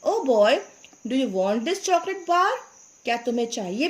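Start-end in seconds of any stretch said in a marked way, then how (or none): 0.0-2.5 put-on kindly old man. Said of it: "He showed it to the boy and said".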